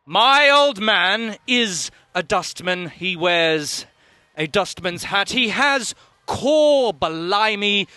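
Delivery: slow grand recital; hammy stage actor. Acted. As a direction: declaim it like a bad actor. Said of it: "The curtain rises".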